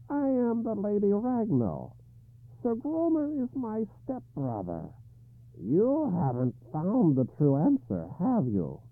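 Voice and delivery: high, slow harsh croak of a hag. Acted. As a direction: croak it out like a grotesque old woman. Lady Ragnall speaks.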